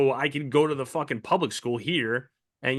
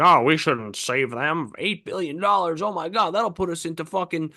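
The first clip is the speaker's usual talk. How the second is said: mock alarm; 4 semitones higher than usual. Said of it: "We're like".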